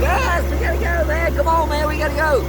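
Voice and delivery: loud, high shouting to get moving; full-throated high urgent shout; urgent yell. Real, not acted. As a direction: yell in a real rush to escape. Fleeing the storm, yelling.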